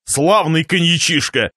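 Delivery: неторопливо, смакуя коньяк; похвали напиток с расстановкой; довольный гость. Acted. (благодушно, врастяжку)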